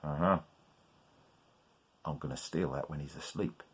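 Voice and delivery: low, soft sly plotting; scheming whisper. Acted. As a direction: mutter it like a thief. Innkeeper plots theft.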